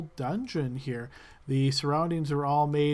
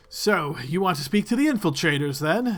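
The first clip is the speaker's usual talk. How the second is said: a curt, slightly louder guard who resents the visitors; irritated gentleman; 3 dB louder than usual. Acted. Guard leading the party, irritated and curt. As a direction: sneer at them while leading the way. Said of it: "obviously irritated gentleman".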